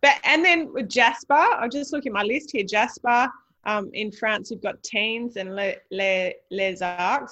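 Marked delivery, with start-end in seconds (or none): 5.6-7.3 slow French accent on "Les Arcs". Shown as a demonstration. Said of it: "Excuse my French accent".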